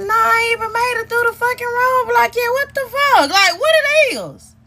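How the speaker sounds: fired-up accusing rant; angry confrontation. Retold or imitated. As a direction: tear into him with suspicion. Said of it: "I said".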